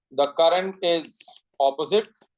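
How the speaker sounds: very slow, word-by-word dictation; spaced-out note-giving, with long pauses. Real, not acted. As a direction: read it out slowly for students to write down. Dictating notes to the class.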